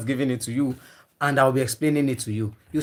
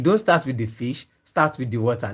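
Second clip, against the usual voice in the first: "don't" stressed, rising to "fish", then "water" falls lower; emphatic correction; 3 semitones lower than usual. Real, not acted. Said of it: "That's my emphasis".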